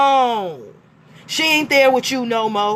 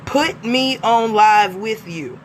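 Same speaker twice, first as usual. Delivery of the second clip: mock demand; 4 semitones lower, slower than usual. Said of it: "Is that a demand or is that a question?".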